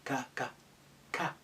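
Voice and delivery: ordinary talk, nothing marked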